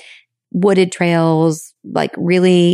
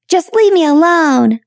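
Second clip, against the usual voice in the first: put-on much higher, slower, louder childlike plea; little girl voice; 10 semitones higher, 4 dB louder, slower than usual. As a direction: sound like a hurt little girl. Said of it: "that's my little girl".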